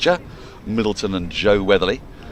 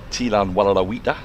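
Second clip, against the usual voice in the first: bad Brendan Foster accent; 4 dB louder than usual. Shown as a demonstration. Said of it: "I don't even know what that accent is".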